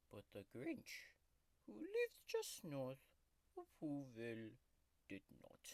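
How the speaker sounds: grumpy tiger mascot growling through a fake ASMR video; sulky tiger taking over the channel; tiger character voice. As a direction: play a cranky cartoon tiger throughout. Tiger character Oscar hosts the video.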